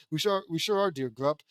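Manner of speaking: loosely attempted British accent. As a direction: have a half-hearted go at British.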